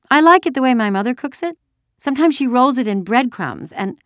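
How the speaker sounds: put-on high-pitched childish prattle; chattering little girl. A narrator's reading. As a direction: keep up a silly girl's chatter. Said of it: "Keep chattering".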